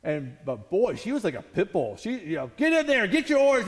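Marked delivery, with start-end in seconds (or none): 2.6-3.7 barked order. Retold or imitated. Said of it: "she's barking".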